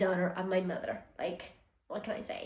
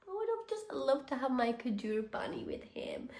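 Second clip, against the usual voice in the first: soft, wistful retold wish; mildly sad, hushed recollection; a bit sad; 2 semitones higher, 6 dB quieter than usual. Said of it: "I did feel a bit sad".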